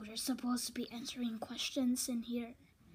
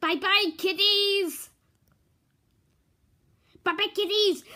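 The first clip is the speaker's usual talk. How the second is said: cutesy high voice; 7 semitones higher, 11 dB louder than usual. Pretend. Cutesy goodbye to viewers.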